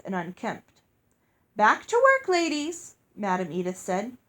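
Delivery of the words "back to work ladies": high, loud clipped command; bossy headmistress. A narrator's reading. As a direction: shoo them back to work.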